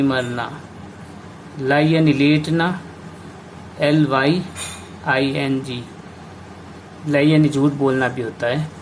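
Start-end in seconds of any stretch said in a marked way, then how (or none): 3.8-5.8 slowly spelled letter by letter; slow spelling. Shown as a demonstration. Teacher spells out the word.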